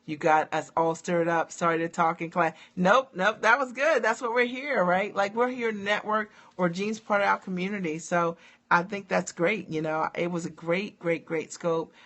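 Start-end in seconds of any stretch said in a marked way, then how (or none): 2.8-8.0 excited. Real, not acted. Excited chat reacting to a viewer.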